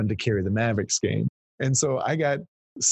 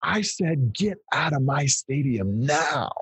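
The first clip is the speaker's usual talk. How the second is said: retold yell; 4 semitones higher, slower than usual. Billionaire ordering a reporter out of his stadium, mildly yelled. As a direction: imitate an angry order, stretching the words out slowly. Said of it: "He yells at me".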